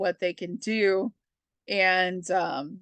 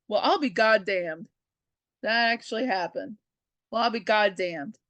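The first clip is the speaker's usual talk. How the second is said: dad's voice. Retold or imitated. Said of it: "Papa Quinn would say".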